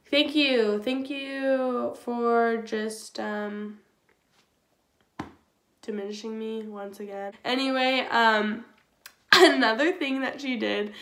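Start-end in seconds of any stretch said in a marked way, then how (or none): 0.1-7.3 sarcastic thanks. Retold or imitated.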